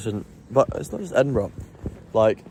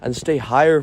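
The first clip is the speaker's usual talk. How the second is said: rising higher; 4 semitones higher than usual. Shown as a demonstration. Showing posh speakers' patience, rising higher. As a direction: lift "higher" up and hold it there. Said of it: "go higher".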